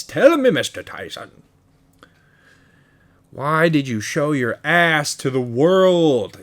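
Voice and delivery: loud, lightly mimicked boxer voice; Mike Tyson. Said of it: "a shitty Tyson impression".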